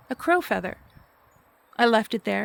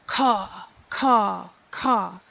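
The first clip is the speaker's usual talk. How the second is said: imitating a crow's caw; much slower than usual. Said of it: "And I asked if that was a no".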